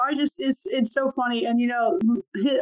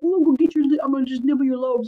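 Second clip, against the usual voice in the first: put-on playful baby talk; 4 semitones higher, 4 dB louder than usual. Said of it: "I was like".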